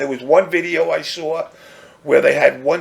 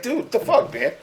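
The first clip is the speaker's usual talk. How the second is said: pitched up high, incredulous "what the fuck"; a mock recoil of disgust, voice jumping up; disgusted disbelief; 9 semitones higher, 6 dB quieter than usual. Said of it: "I'm just kinda like".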